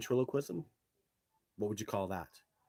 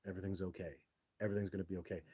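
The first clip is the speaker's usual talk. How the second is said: calm; 5 dB quieter, much faster than usual. Retold or imitated. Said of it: "I stood there calmly".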